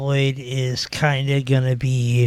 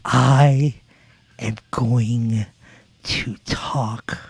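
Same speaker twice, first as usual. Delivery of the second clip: mock promo delivery; 3 semitones lower, much slower than usual. Shown as a demonstration. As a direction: break it up with pauses and let it sink. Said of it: "to talk like this".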